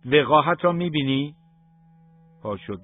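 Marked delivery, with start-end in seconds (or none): 0.1-1.3 loud, high outraged cry; shout. Acted. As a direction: yell at the son's cheek. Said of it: "پدر فریاد زد". (فریادی بلند و خشمگین)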